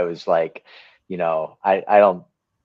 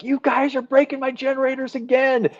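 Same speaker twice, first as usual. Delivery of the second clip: mock angry. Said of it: "remember how mad he always was".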